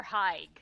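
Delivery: Haig as one syllable, rhyming with "vague" or "bike"; misread pronunciation. Shown as a demonstration. Co-host offering another wrong reading of hygge, mispronounced. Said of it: "It looks like".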